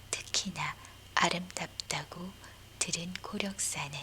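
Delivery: ordinary talk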